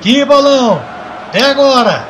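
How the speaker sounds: loud, high, shouting goal call; explosive goal commentary. Acted. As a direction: scream the goal like a TV narrator. Goal scored, narrated live.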